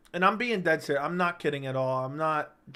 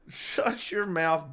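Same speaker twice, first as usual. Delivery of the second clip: slow, stretched mock delivery; slow drawn-out; much slower than usual. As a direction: drag out each word. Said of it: "repeated slow mock delivery".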